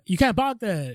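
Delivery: high-pitched mock Asian accent; imitated Asian accent. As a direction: imitate an irked store owner with an Asian accent. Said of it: "he has an Asian accent".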